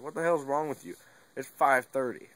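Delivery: mock-angry dad telling off his sleeping son; retold dad scolding.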